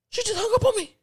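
gasp, then very high squeal; shocked disbelief. Retold or imitated. Caller thinks agent hung up, high shocked squeal. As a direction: squeak it out in mock outrage.

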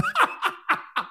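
a high, staged burst of laughter; laugh on cue. Retold or imitated. Host laughs on cue for the crane camera, staged. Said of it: "I'm gonna laugh in three".

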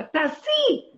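loud, high shouted command; shouting. Retold or imitated. To a hesitant woman who won't act, shouting do it. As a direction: yell the order straight at her. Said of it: "אני צועקת לה".

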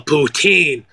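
put-on "Poutine" drawn out as "poo-TEEN"; emphatic correction. Server correcting a customer, emphatic "poo-TEEN". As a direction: lean hard on the end of "Poutine". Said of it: "trying to make it emphasis".

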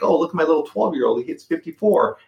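lightly boastful, pitched well up; retold proud boast. Dad bragging to teenagers about his pitcher son, retold proud boast. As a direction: show off your kid, voice lifted high.

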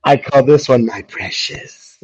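high, slow creepy doting voice; crazy cat owner. Acted. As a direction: draw it out, hammed-up obsessive pet lover. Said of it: "like every other fucking crazy cat owner".

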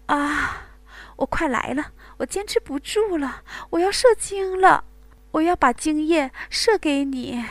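high, loud straining cry; climaxing cry. Acted. Wang Gang at his limit, loud straining cries. Male lover nears climax.

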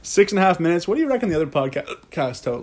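hiccuping while talking; with hiccups. Real, not acted. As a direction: talk through the hiccups. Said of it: "You're hiccuping".

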